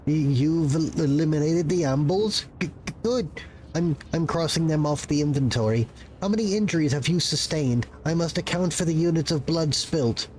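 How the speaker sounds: a frazzled little bureaucrat caught off guard; nervous clerk voice. Acted.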